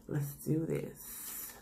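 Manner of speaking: slow whispered let's do this. Real, not acted. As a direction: whisper it slowly to yourself. About to take a bite.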